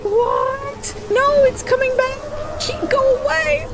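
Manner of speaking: high, helpless laughing through disbelief; real laughter breaking up the words, pitch way up; shocked laughter. Real, not acted. Player watching a tornado wreck the town, laughing in shock. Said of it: "I'm laughing at the fact".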